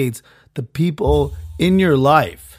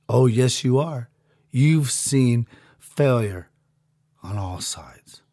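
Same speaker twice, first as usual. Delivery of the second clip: overlord voice; 3 semitones lower, 3 dB quieter, slower than usual. Acted. Overlord voice answers him.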